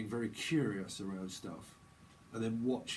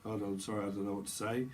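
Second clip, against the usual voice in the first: a touch of sheepish apology, lower; Steve; 4 semitones lower, faster than usual. Retold or imitated. Steve at a loss for what to say, lightly imitated apology. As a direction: drop the pitch and apologise. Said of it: "This is where Steve's like".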